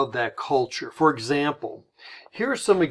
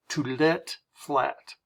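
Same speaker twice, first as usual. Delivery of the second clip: slow demo; much slower than usual. Shown as a demonstration. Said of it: "They would say".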